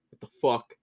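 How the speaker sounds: mock panic. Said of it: "and you're just like".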